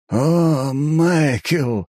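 high, overly jolly exclamation; exaggeratedly cheerful. A narrator's reading. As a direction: greet him with exaggerated cheer. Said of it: "преувеличенно весело воскликнул эльф".

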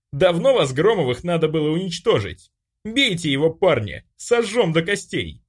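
bully screams orders at his gang; furious yell. A narrator's reading. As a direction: scream defiance at him.

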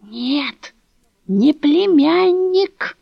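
put-on slow, high, solemn old woman; old woman corrects Dasha, solemn and slow; solemnly. A narrator's reading. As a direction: declare it triumphantly, drawn out. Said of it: "торжественно проговорила".

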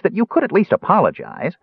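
high, affronted reproach; stern Kender. A narrator's reading. Kender demanding an apology from the jailer, stern. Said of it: "Tass added in a stern voice".

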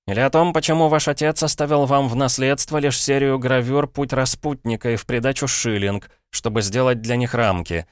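put-on a boy begging his uncle to hear him out; desperate boy Paul. Paul pleads with his brother-in-law, urgent boyish voice.

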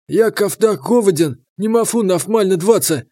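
talking with mouth full; chewing while speaking. Acted. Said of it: "принялся набивать своё брюхо".

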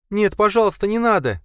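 high, loud sobbing plea. A narrator's reading. Linda sobbing as Blakely forces the shot, sobbing. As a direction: beg him through sobs. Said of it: "рыдала она".

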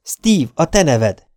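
drawn-out startled outburst; sudden exclamation. A narrator's reading. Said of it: "Aztán hirtelen felkiáltott".

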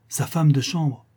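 seconde reprise plus affirmée; répète en haussant un peu le ton; étonnement appuyé. Acted. Répétition renforcée de la réplique. (étonnement qui monte, voix plus ferme)

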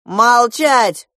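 sharp hushing. A narrator's reading. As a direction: cut them off with a loud order. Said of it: "цыкнул на неё гусь".

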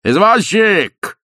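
long, high, loud yell, drawn out slowly. A narrator's reading. Ostap yells for a cab in the street. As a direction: bawl for the cab. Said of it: "завопил Остап".

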